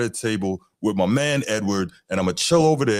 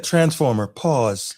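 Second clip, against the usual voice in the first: lightly voiced assistant reply, a little higher; Alexa's voice; 4 semitones higher, slower than usual. Mocking the Alexa reply to a friend, a hint of robot voice. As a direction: mimic the smart speaker's answer, barely put on. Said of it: "Alexa said".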